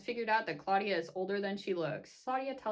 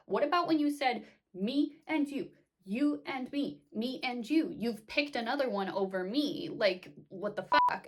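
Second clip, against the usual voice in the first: upset Claudia; 4 semitones higher, 7 dB louder than usual. Retold or imitated. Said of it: "And Claudia is like".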